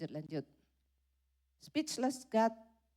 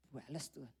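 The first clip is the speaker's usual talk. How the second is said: much softer, low, hushed demand; inner whisper; 8 semitones lower, 13 dB quieter than usual. Acted. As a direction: mutter the real wish inwardly. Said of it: "Tapi dalam hatinya".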